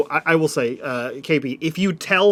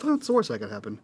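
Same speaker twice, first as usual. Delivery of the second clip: low, soft grumble to himself; muttering under breath; 6 semitones lower, 8 dB quieter, faster than usual. Retold or imitated. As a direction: mutter it under your breath, lower and quieter. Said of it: "he mutters under his breath".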